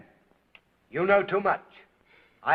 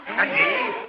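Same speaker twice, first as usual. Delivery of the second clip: incredulous. Acted. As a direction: pitch jumps far higher in disbelief. Prefect incredulous at ape claim.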